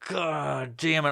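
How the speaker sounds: slow, drawn-out mock despair; exasperated groan. Imitating himself feeling cringy on stream, slow groan. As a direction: drag it out, embarrassed. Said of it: "And I'm like".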